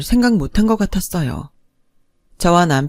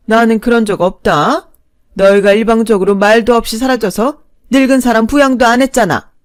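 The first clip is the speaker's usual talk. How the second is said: higher, louder indignant scolding; scolding mother-in-law; 5 semitones higher, 7 dB louder than usual. Acted. Mother-in-law scolding the daughter-in-law, louder indignant tone. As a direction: lecture her like a bad child.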